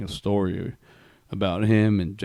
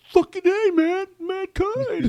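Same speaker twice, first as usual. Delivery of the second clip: very high, louder mock shout; excited fan yell; 3 dB louder, much slower than usual. Guy in the theater spots Mankind, excited fan yell. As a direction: whoop it high, stretching the name.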